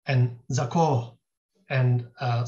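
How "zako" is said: "zako" drawn out on a long o; Hijazi o vowel. Shown as a demonstration. Quoting the grammarian's rule, "zako" with long o. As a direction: say "zako" slowly, ending in o. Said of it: "these words should be pronounced as".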